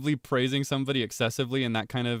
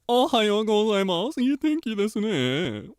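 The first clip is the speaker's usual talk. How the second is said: much higher, slow, louder cutesy anime voice; exaggerated anime voice; 10 semitones higher, 6 dB louder, slower than usual. Shown as a demonstration. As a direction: sing it out like an over-the-top anime girl. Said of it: "one line in multiple different voices".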